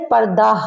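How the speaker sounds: पर्दा said with the final ha silent, ending on a. Shown as a demonstration. Teacher showing students पर्दा with no final h. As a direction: say पर्दा with no h at the end. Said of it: "हा ये पढ़ने में नहीं आती".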